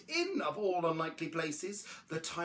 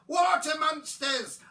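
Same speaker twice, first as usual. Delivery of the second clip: high, loud, drawn-out alarm; frightened high shout; cried out; 10 semitones higher, 7 dB louder, slower than usual. A narrator's reading. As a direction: yell it in terror. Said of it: "one cried".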